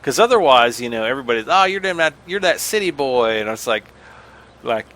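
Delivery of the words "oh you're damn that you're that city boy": a hint of a teasing country accent; imitating relatives. Relatives teasing the city cousin, light country accent. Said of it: "country accent or something".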